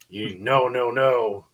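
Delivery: slow, booming Viking warrior. Retold or imitated. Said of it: "Viking voice".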